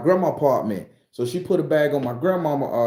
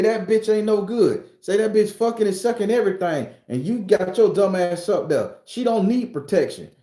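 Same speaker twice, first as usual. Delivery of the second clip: lightly voiced angry girl; 6 semitones higher than usual. The girl badmouthing grandma to the grandson, high and scornful. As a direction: sneer it out like the jealous girl. Voicing the girl's reply.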